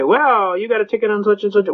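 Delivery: lightly voiced judge launching straight in; imitated judge. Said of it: "the judge bips off right away".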